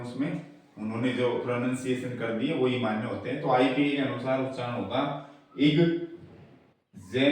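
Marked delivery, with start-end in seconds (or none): 5.6-7.2 इग्जेमिनेशन broken into slow parts; इग्जेमिनेशन spaced out for teaching; stress demonstration. Shown as a demonstration. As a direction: say इग्जेमिनेशन slowly, leaning on the "ne" syllable. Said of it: "इसमें primary stress लगेगा".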